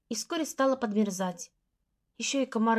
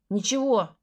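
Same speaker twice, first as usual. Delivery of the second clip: snapped; 4 dB louder, slower than usual. Acted. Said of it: "огрызнулся он".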